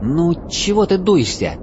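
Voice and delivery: elf voice. Acted. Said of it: "спросил Леголас".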